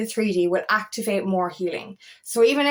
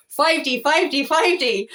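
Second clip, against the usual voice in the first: higher, louder chant of five D, slowing down; repeating a mantra; 4 semitones higher, 3 dB louder than usual. Retold or imitated. Talking herself out of the spiral, chanting five D like a mantra. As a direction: drill it into yourself like a mantra. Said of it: "sit there going".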